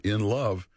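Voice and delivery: "in love" set apart with emphasis; stress on "in love". Real, not acted. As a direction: underline the words "in love". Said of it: "I emphasize the word".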